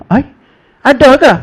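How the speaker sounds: mock surprised "ada ke?", voice jumping up high. Retelling a pilgrim's surprise at the footprint, high and astonished. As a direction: act the pilgrim who never knew.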